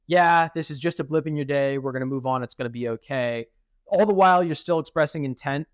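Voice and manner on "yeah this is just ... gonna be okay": relaxed, soothing wind-down; calm and easy. Shown as a demonstration. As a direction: shrug it off as a small blip. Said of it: "talk it down to angry, frustrated, annoyed".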